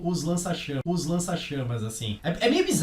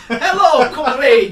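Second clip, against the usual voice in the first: put-on hammy Italian accent, high and loud; laughing through an overdone Italian accent; 9 semitones higher, 14 dB louder, much slower than usual. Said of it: "falando com o sotaque italiano de novo". (sotaque italiano exagerado e rindo)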